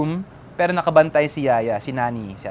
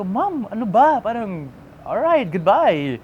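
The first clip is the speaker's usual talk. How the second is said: mock impatience; 5 semitones higher, slower than usual. Retold impatient reply to mom.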